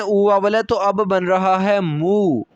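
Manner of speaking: ordinary talk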